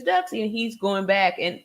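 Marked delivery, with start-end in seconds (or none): 0.0-0.5 mock Daffy Duck. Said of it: "Daffy turns it around and says".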